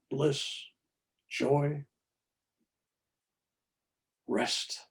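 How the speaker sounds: a touch of a hushed, soothing angel; soft feminine voice. Retold or imitated. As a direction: softly coax him to let go, like an angel. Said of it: "the softest, most feminine voice".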